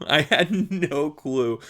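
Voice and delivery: chuckling through it slowly; laughing. Real, not acted. Recalling hard labor to listener, slow laughing repeat. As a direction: laugh at your own past naivety. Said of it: "no, I had no clue".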